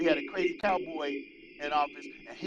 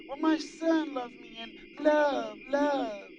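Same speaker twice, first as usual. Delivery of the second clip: mocking imitation; 7 semitones higher, 3 dB louder, slower than usual. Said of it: "trying to act like".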